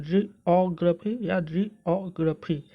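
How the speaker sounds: जियोग्राफी twice, slowly and carefully, as two options; slow, measured जियोग्राफी, offered both ways; alternative pronunciations. Shown as a demonstration. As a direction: model each जियोग्राफी slowly, breaking after the first sound. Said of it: "आप इस तरीके से भी बोल सकते हैं".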